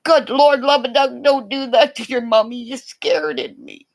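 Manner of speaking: high startled cry; mock scared scolding of a son; retold fright. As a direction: yelp it like you just got spooked. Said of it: "I went".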